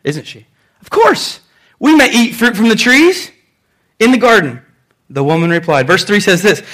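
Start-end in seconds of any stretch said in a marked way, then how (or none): 0.8-4.6 high-pitched, assured opening, settling slightly; self-assured, emphatic reply; confident Eve. Acted. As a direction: answer as if it's obvious. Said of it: "Now, she's confident".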